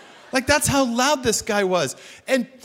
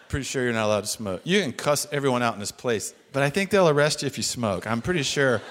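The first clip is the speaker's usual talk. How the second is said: timid mock voice; 8 semitones lower, faster than usual. His timid remark continues.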